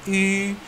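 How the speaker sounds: "I" with lips pushed out as for U; rounded ü sound. Shown as a demonstration. Teacher explaining mouth shape, long rounded "I". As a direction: hold "I" long with pursed lips. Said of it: "saat kita menyebutkan I".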